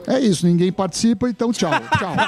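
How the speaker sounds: peeved, rising-pitched goodbye; miffed. Real, not acted. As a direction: wrap it up in a huff because nobody joins in. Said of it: "Você tá bravo, meu?".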